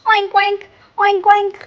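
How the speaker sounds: high paired oinks; pig oink. Acted. Telling children what mummy and baby pig say, oinking. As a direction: oink high like little pigs. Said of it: "They are saying".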